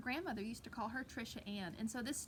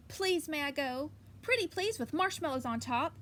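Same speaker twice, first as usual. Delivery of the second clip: put-on pleading girl; 2 semitones higher, 7 dB louder than usual. Girl begging again.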